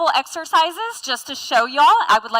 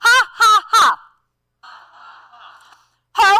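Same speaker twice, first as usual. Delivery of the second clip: loud, higher evil chuckle; villain laugh; 4 semitones higher, 5 dB louder, slower than usual. Acted. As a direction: cackle like a cartoon villain. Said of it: "Everyone do a villain laugh".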